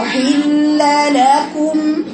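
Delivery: لكم very slow with the lips closing on the م; lips closed on final mim. Shown as a demonstration. Teacher correcting a student's open mim. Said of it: "لازم شفايفك ترجع في الميم".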